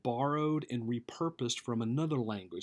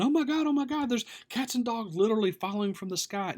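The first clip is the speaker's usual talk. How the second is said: much higher, loud hammed-up shriek; mock hysteria; 11 semitones higher, 6 dB louder than usual. Preacher plays listener shrieking about cats falling, hammed-up panic. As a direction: panic like Chicken Little. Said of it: "freak out saying".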